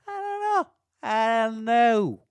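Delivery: high, loud squeal of exasperation, then held; exasperated. Real, not acted. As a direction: throw up your hands vocally. Exasperated shrug at the spelling.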